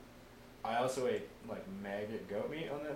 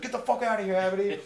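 high, loud furious dismissal; retold angry shout; 10 semitones higher, 9 dB louder than usual. Narrator kicking his gunner away, retold angry shout. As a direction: yell him away, voice pitched up.

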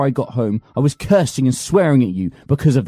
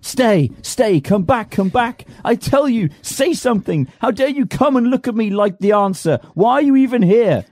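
furious shouting; 8 semitones higher than usual. Acted. Master raging at his servant Apollon, furious shouting. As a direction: shout him down in a rage.

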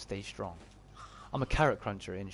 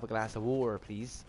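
Bristol accent, T dropped in "water". Shown as a demonstration. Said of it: "around here we don't pronounce our T's".

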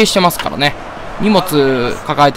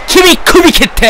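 slowly drawn out, high mock sentence; mock verdict; 10 semitones higher, 4 dB louder, much slower than usual. Real, not acted. Gamer sacks his error-prone fielder, drawn out and high. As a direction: pronounce the sacking slowly and high.

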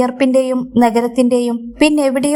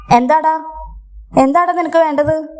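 a little higher and sharper, anger mixed with fear; angry and scared; 4 semitones higher than usual. Acted. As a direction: snap at the boy, half frightened. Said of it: "ശബ്ദത്തിൽ ദേഷ്യവും ഭയവും കലർന്നിരുന്നു". (ദേഷ്യവും ഭയവും കലർന്ന ശബ്ദം)

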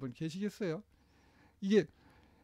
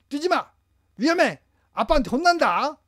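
much higher, louder yell; father yelling at child; 8 semitones higher, 9 dB louder than usual. Retold or imitated. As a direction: shout a warning and a threat. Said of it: "이러시려는 거예요". (산에서 아이에게 소리치는 아빠)

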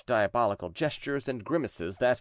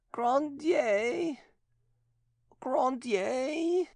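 much higher, slow, eerie possessed voice; possessed nun; much slower than usual. A narrator's reading. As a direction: speak as the demon inside her, slowly. Possessed nun names the sorcerer.

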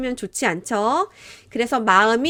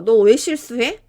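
scolding; 4 dB louder than usual. Acted. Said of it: "막 이렇게 혼내는데".

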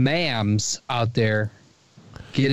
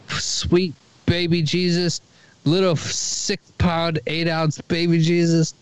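slow, higher mock-devout thanks; drawn-out, playful praise to baby Jesus; mock reverent prayer; 4 semitones higher than usual.

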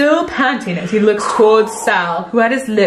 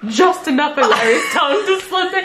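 dramatic reading; 3 semitones higher than usual. Acted. Reading romance fanfic aloud.

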